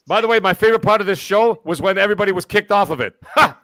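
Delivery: a cocky know-it-all character, only slightly put on; Tony Baloney character. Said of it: "I haven't done Tony Baloney".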